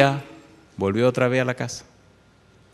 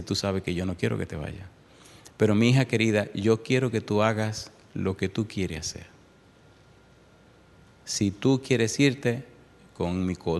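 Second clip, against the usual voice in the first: tearful mother. Retold or imitated.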